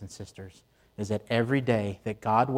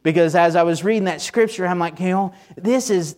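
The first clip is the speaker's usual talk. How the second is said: excited; 6 semitones higher, 5 dB louder than usual. Real, not acted. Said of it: "You can tell I'm a little excited about this".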